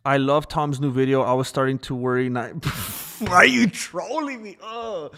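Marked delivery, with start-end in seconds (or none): 3.2-5.1 high, loud, laughing complaint; laughing protest. Real, not acted. Streamer laughing at a chat comment, high and loud. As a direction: cry out through a laugh.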